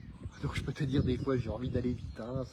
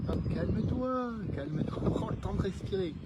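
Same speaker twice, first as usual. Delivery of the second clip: soothing self-talk; 6 semitones higher than usual. Retold or imitated. Calming themselves down in self-talk.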